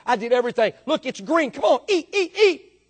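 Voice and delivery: building, exasperated mock pleading; acted urging. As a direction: plead with a stubborn flock, pitch rising. Shepherd urging sheep to eat.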